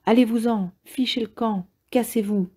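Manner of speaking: ordre sec, plus aigu, un patron furieux qui chasse; patron en colère. Retold or imitated. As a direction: chasser la bande sans appel, voix montée. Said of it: "franchement en colère". (le patron du McDo chasse les jeunes sourds, colère retenue)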